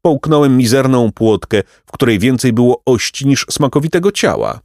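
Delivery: high, lamenting pelican, mildly squawky; understated screechy bird voice. A narrator's reading. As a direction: complain loftily about a long hunger. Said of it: "odrzekł wrzaskliwie Pelikan".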